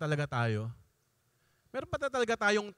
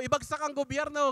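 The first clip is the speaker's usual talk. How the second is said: higher-pitched, mildly imitated rally chant; mock protest shout; 5 semitones higher than usual. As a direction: imitate activists' slogan without really shouting. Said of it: "sigaw sila ng sigaw". (kunwaring sigaw ng aktibista)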